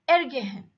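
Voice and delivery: "ergehen" with a short ER, weight on GEHEN; "ergehen" stressed on the verb part. Shown as a demonstration. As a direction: pass over "er" and lean on "gehen". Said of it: "the stress is on the verb gehen".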